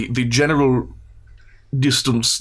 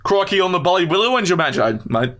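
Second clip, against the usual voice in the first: garbled mock Australian, higher pitch; hammed-up bogan slang slipping toward Cockney; bogan Australian accent; 4 semitones higher than usual. Shown as a demonstration. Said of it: "do an Australian accent".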